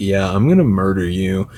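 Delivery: ordinary talk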